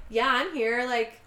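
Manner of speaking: brazen, unbothered retort; gives no fucks. Retold or imitated. Patricia answers back at the scene, brazenly unbothered. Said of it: "Patricia gives no fucks".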